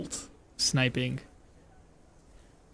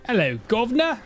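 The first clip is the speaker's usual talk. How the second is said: lightly voiced British bloke; male cockney; 5 semitones higher, faster than usual. Shown as a demonstration. Gamer's cockney attempt that comes out male. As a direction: say it like a London man. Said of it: "that's a male voice again".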